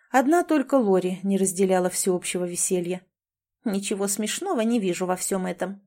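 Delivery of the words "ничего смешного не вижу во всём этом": grumbling. Acted. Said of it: "ворчала она".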